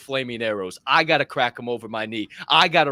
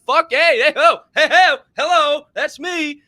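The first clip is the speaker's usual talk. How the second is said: high, loud fired-up hollering; hyped shout; 12 semitones higher, 8 dB louder than usual. Real, not acted. Fired-up podcast host hollering about his tribe. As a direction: whoop it up like a hype man.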